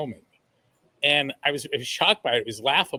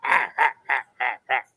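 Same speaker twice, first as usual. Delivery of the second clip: lightly voiced pirate growl; a hint of a pirate "arr"; 3 semitones lower than usual. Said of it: "And in his pirate voice".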